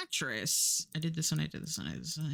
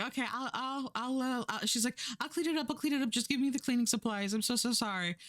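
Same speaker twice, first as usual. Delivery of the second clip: a lightly voiced Josie, higher and stammering apologies; mock-flustered guest who insists on cleaning; flustered insisting; 6 semitones higher, much faster than usual.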